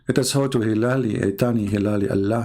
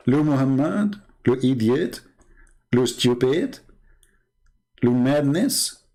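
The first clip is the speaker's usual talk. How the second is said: mock French accent, drawn-out word endings; finto accento francese. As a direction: put on a joke French accent. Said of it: "Let us talk French now".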